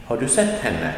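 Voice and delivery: "har du" and "henne" unstressed, "sett" emphasized; stress on sett. Shown as a demonstration. Teacher modelling a question, emphasis only on "sett". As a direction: hit only the word "sett". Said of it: "The emphasis is only on sett".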